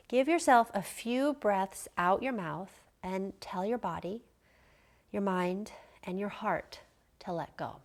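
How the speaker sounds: measured guided relaxation with long pauses; guided meditation. Real, not acted. Yoga teacher guiding listeners to prepare to relax, measured meditation delivery. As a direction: guide them gently into rest, leaving space between phrases.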